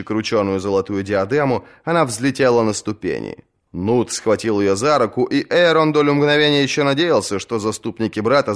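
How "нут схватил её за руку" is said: plain reading voice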